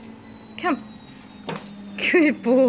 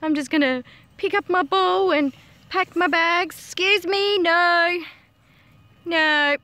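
higher pretend voice for a huffy pet; lightly voiced sulky dog; 4 semitones higher, 4 dB louder than usual. Owner speaking for dog packing its bags, mock huff. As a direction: play the dog announcing it's leaving. Voicing the dog's indignant plan.

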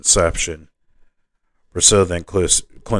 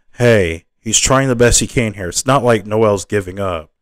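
raised, louder acted protest; higher, insistent objection; defensive protest; 3 semitones higher, 3 dB louder than usual. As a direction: jump in to defend a friend. Friend jumps to healer's defense.

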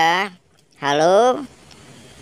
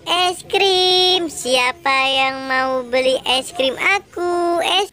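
hawker's call; slower than usual. Acted. Ice cream seller hawking wares.

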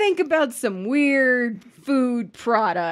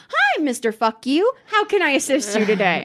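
sarcastic politeness; 2 semitones higher than usual. Retold or imitated. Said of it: "And I say".

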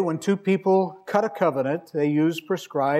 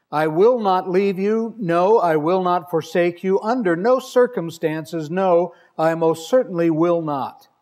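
slower, louder, every "not" and "No" leaned on; emphatic reading; 3 dB louder than usual. Shown as a demonstration. Preacher reading God's literal promise to the church, slow and emphatic. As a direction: press each denial home, slowly. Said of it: "the most emphatically negative statement".

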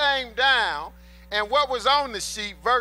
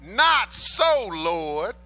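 emphatic refusal; 2 semitones lower, 3 dB louder, much slower than usual. Acted. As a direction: push back hard against the voice. Preacher acts Peter refusing.

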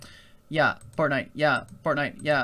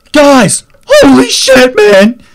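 full-volume higher yell at the guys; loud shout; 7 semitones higher, 15 dB louder than usual. Acted. Bursting out at his viewers, loud higher yelling. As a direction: bellow it at your audience. Screaming at viewers in mock panic.

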